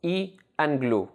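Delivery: "i" and "glú" said as separate syllables. Shown as a demonstration. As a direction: split it into "i", then "glú". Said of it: "has two syllables".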